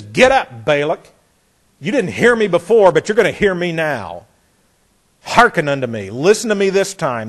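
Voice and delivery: a prophet loudly rebuking the king; forceful. Retold or imitated. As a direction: shake him with your words. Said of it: "it's very forceful".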